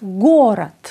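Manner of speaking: Γκόρατ, stressed first o, second vowel as "a"; unstressed o as a. Shown as a demonstration. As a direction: punch the first syllable of Γκόρατ, reduce the second to "rat". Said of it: "το άτονο ο που γίνεται α". (Γκόρατ με το άτονο «ο» σαν «α»)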